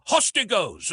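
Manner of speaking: high, drawn-up battle yell; yelled war cry. A narrator's reading. Soldiers yelling their cry as cavalry nears, high battle yell. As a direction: narrator calls out the troops' cry. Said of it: "There were a few yells of".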